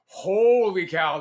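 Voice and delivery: slow, loud, astonished "Holy cow"; drawn-out amazed holy cow. Retold or imitated. Amazed farm kid arriving New Orleans.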